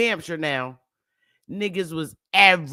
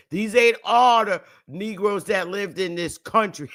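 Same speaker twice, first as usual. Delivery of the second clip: laughing through a quote. Real, not acted. Quoting a remark while laughing.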